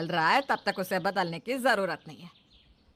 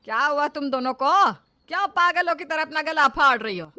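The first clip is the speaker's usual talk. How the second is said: angry scolding; 4 semitones higher, 9 dB louder than usual. Acted. Mother-in-law scolds shouting daughters-in-law.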